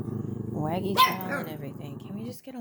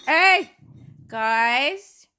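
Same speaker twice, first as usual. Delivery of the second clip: sharp high loud shout; 7 semitones higher, 14 dB louder than usual. Real, not acted. Owner shouting to stop the dogs scrapping.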